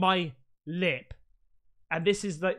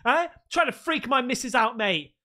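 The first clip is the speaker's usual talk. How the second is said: higher, louder tough-guy challenge to a home intruder; mock confrontation; 4 semitones higher, 4 dB louder than usual. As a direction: square up to the intruder in play.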